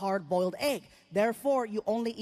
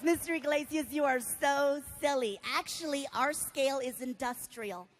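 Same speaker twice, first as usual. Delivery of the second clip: lightly voiced sweet nurse; amused nurse. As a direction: humour the patient gently. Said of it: "She starts laughing".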